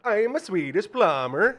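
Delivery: put-on slow, high, loud Swedish accent; mock Swedish accent. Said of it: "You can't even do an accent".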